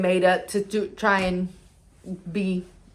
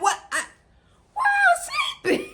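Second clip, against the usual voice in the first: high, laughing confused question; laughing disbelief. Retold or imitated. Asking mom why she's asleep, high and laughing. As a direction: ask it while cracking up.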